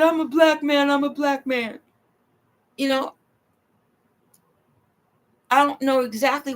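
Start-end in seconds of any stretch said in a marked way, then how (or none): 0.0-1.8 imitating his plea. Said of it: "And he said".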